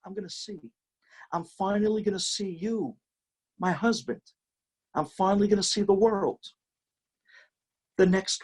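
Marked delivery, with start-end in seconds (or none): 0.1-6.4 a wife about to see her husband, high and overjoyed. Acted. Wife hearing she will see, cries out high with joy. Blind wife's overjoyed words.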